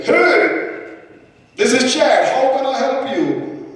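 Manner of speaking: put-on high-pitched Texan yahoo accent; Texan tech-support guy, hammed-up American accent; best American accent. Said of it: "that's my best American accent".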